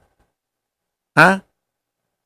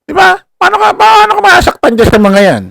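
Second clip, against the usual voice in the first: laughing taunt; 5 dB louder than usual. Real, not acted.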